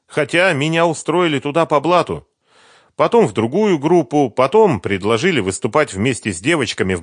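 put-on eager young woman recalling Kiev; Sveta's voice. A narrator's reading. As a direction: chatter it brightly as Sveta.

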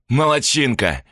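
mildly satisfied praise; villain praising his accomplice; pleased. A narrator's reading. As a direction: pat her on the head with the word. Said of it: "довольно произнёс Евгений".

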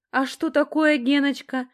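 high, loud challenging interjection; ringing voice. A narrator's reading. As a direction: cut in with a high, provoking ring. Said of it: "неожиданно вмешался звонкий Наташкин голос".

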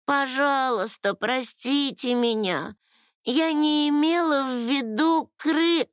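high, pleading fairy voice; scared, high-pitched lament; frightened wailing. A narrator's reading. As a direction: beg in rising panic until cut off. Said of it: "запричитала Лала, внезапно ещё больше испугавшись".

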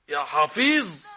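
يا حفيظ exclaimed loudly, falling at the end; loud dismay. Acted. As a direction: cry it out in alarm. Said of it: "same words said again louder".

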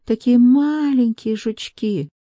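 high, slow, soothing maid voice. A narrator's reading. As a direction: explain sweetly like to a child.

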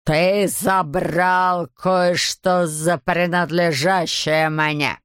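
put-on slow, hissed name in a foreign accent; hissing accent. A narrator's reading. Hunter hissing the enemy's name through the door, slow and menacing. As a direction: drag the name out like a hunting beast. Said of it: "с сильным акцентом".

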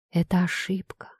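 terrified trembling whisper. Acted. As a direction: breathe it out, shaking with fear. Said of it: "трясущимися губами прошептала она". (испуганный дрожащий шёпот)

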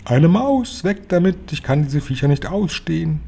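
high-pitched shriek at a mouse, easing toward the end. A narrator's reading. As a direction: shriek in panicked disgust, pitch way up. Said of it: "fuhr aus ihrem Sessel empor und schrie". (hoch und entsetzt aufgeschrien)

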